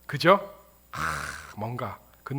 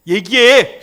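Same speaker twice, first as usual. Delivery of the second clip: sudden loud, high-pitched order; interrogating shout; demanding parent; 7 semitones higher, 16 dB louder, much slower than usual. Acted. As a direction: demand a confession forcefully. Suspicious parent demands a confession.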